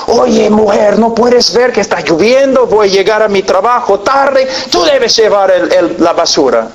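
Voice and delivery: an irritated man shouting about the rain; mock angry yell. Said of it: "comienza a gritar".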